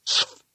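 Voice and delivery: "Sf" as a hissed s sliding into f; spell pronunciation. A narrator's reading. Trying another reading of the word, "Sf" as pure consonants. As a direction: sound "Sf" with no vowel at all. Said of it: "it should be pronounced".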